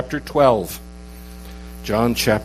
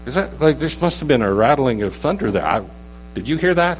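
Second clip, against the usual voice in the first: lightly acted crowd wondering at a noise; puzzled bystanders; 3 semitones higher than usual. Bystanders asking each other about the thunder, lightly acted puzzlement. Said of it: "crowd of people who stood by".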